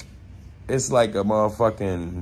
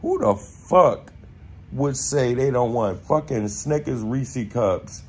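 hammed-up outraged question; mock incredulity; 3 semitones higher than usual. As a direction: drag out the disbelief. Narrator's incredulous retort.

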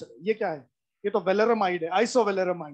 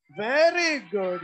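slow, stretched-out approval; drawn-out praise; much slower than usual. Real, not acted. Teacher praises students for the answer, drawn-out praise. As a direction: draw out each word in praise.

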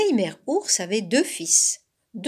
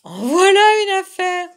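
high, loud amused exclamation; amused fox; 10 semitones higher, 10 dB louder than usual. A narrator's reading. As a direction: crow it in mock amazement, hint of laughter. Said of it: "répondit le renard en riant". (exclamation amusée, aiguë et forte)

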